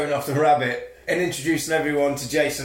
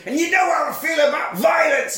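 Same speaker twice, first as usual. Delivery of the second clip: mock angry dad; 11 semitones higher than usual. Angry dad voiced in story.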